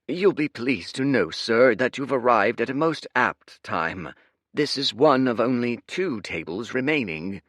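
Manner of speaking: suddenly all flattery; fawning server. Acted.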